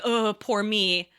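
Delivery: slow, drawn-out mock woe; lightly put-on poor-me moan; mock self-pity. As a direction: play at feeling sorry for yourself. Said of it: "I'm not like".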